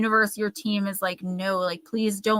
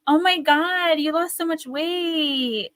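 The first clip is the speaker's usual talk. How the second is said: higher, slow, syrupy put-on voice; fake-sweet backhanded gush; 7 semitones higher, slower than usual. Mocking acquaintances who comment on her weight, syrupy fake concern. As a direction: drip sweetness over the dig. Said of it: "the first thing they'll say is".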